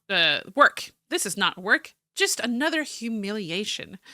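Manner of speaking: theatrical journal read-aloud; story narration. Acted. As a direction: read it out like a dramatic diary. Reads journal aloud as character.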